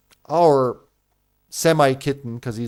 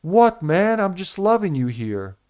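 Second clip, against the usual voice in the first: voicing the kitten; 5 semitones higher than usual. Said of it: "And he'll be like".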